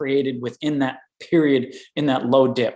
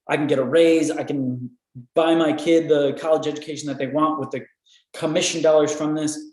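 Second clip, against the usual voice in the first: excited; 3 semitones higher than usual. Retold or imitated. Company first seeing an inventor's product, mildly excited. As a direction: voice a company thrilled by a pitch. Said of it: "They're super emotionally connected with it".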